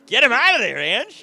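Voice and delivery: loud, high egging on; loud urging. Real, not acted. Host eggs on his guest, loud and high. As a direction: call it out loud and high, cheering. Cheering him on.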